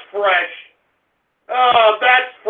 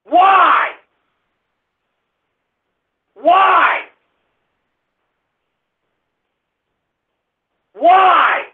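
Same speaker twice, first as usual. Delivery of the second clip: anguished wailing; 2 semitones higher, much slower than usual. Real, not acted. Host despairing after a disastrous show, anguished wailing. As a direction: wail it to the heavens.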